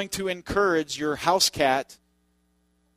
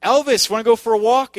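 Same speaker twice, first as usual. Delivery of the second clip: higher, louder call to a pet; inviting the dog; 6 semitones higher, 8 dB louder than usual. Retold or imitated. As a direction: call out brightly to the dog, voice raised. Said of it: "we say".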